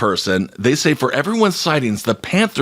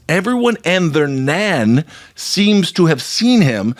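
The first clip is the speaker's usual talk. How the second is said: put-on light British accent; slower than usual. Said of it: "Then she says".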